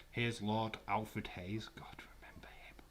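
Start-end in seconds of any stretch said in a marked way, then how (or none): 0.1-1.7 fake English accent. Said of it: "my fake English accent".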